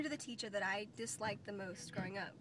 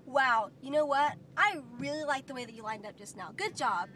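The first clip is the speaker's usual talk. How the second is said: encouraging praise; 4 dB louder than usual. Shown as a demonstration. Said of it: "And say".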